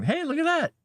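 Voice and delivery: high sing-song pet talk. Real, not acted. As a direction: coo up high at the cat. Talking to the cat.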